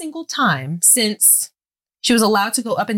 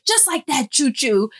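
mock sing-song; 5 semitones higher than usual. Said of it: "look over".

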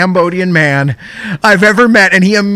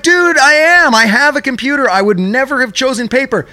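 incredulous protest; 8 semitones higher than usual. Retold or imitated. Caller protesting to agent.

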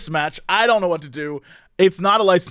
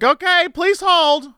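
higher, slow mock-polite operator; phone attendant lady; 10 semitones higher, slower than usual. Help-line operator putting the stuck driver on hold, slow and mock-polite. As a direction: drawl out the brush-off like a bored operator.

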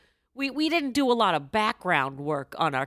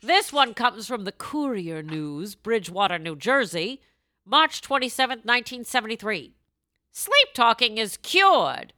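put-on measured read-aloud of an old newspaper column; theatrical letter reading. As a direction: present the printed letter with deliberate phrasing. Reads out an old advice letter.

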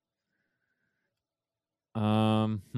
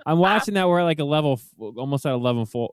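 freaking out; 3 semitones higher, 5 dB louder, faster than usual. Real, not acted. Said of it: "I'm freaking out".

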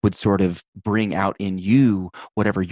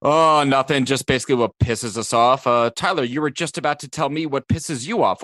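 covering; 4 semitones higher than usual. Acted. Covering up when dad walks in.

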